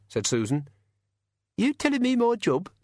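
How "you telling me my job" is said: high, sneering little imp; cheeky high goblin snarl; giggly sneering imp. A narrator's reading. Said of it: "said the imp".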